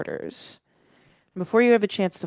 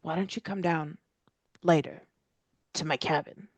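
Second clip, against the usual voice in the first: put-on old man voice; faster than usual. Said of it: "and so he says".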